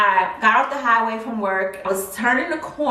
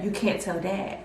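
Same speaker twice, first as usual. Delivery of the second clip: hushed plea; 8 dB quieter than usual. Retold or imitated. Daughter quietly begging mom to keep a secret, soft. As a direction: keep it quiet, just between you two.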